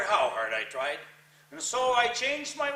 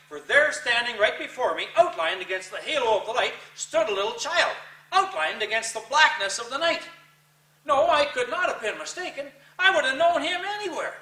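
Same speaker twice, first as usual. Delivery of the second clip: higher and louder, gripped by terror; rising frightened intensity; 5 semitones higher, 5 dB louder than usual. Acted. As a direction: build it up like seeing a ghost. Ghost child appears, rising terror.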